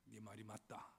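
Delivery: slow, measured scriptural pronouncement; lightly voiced Jesus. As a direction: deliver it as Jesus' solemn command, lightly acted. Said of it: "예수님께서 이렇게 말씀을 하십니다".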